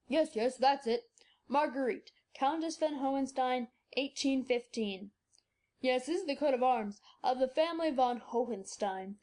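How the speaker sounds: put-on an old scholar cracking the puzzle; joyful old doctor. A narrator's reading. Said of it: "starting up with a cry of joy".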